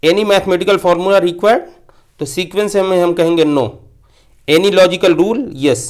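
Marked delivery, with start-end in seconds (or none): 0.0-1.6 slow reading. Shown as a demonstration. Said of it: "यहाँ पे देखिए".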